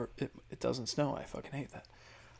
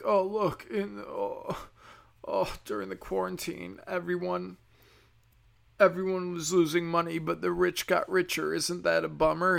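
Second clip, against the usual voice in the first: sarcastic mocking; 5 semitones higher than usual. Mocking the left.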